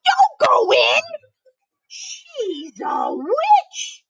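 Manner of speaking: high shouting warning; alarmed chicken. Acted. Chick bursting in to warn Hansel and Gretel, shouting high. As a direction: yell it out to save them. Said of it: "And she said".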